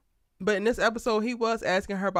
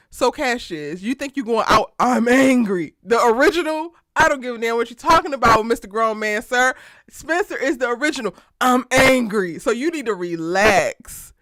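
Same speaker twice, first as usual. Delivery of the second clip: louder, heated mock scolding; Spencer telling Cassius off; 8 dB louder than usual. Spencer snapping at Cassius, loud mock scolding. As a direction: put Cassius in his place as Spencer.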